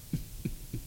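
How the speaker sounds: faint, freaky mock laugh. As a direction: imitate an eerie laugh under the breath. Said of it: "It was just a freaky laugh".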